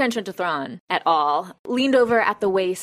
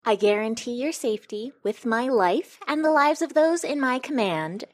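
grand solemn oath; 6 semitones higher than usual. Acted. Chafra swears Thrawn's safety.

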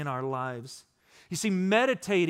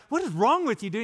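higher, swooping incredulous question; mock bewilderment; 4 semitones higher, faster than usual. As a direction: tease a giddy buddy in disbelief. Voicing friends' reaction to giddy Brad.

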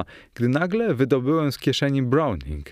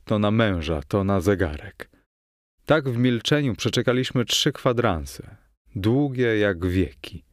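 usual speaking voice

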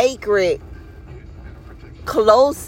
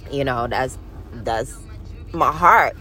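choked-up, much softer, trailing to almost nothing; fighting back tears over grandma; getting emotional; 6 semitones lower, 5 dB quieter than usual. Real, not acted. Speaking of her late grandmother, voice breaking with emotion. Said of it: "I'm getting emotional".

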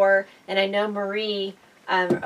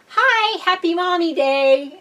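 high, louder doorstep greeting; cheery surprise greeting; 9 semitones higher, 4 dB louder, slower than usual. Retold or imitated. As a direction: call out brightly to mom, pitched way up. Greeting mom at her door.

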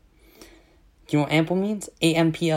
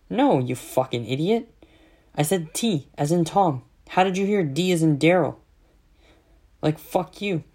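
acting out an annoyed caller; mock indignant correction on a phone call; irritated, emphatic retort, replayed for the story; retold exasperation; 3 semitones higher than usual. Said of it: "I was pissed off".

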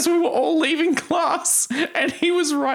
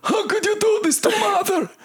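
official ant voice; 9 semitones higher than usual. Pretend. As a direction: plead with Bobby as an ant. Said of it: "official ant voice".

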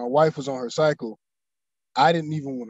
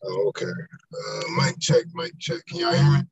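robotic, glitchy call audio. Real, not acted. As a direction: voice turning robotic over the line. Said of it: "You begin to robot a little bit".

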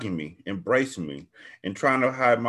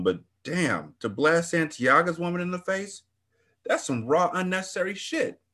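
excited gossip; 5 semitones higher than usual. Acted. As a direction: ramble on like it's a big fight. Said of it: "She acted excited".

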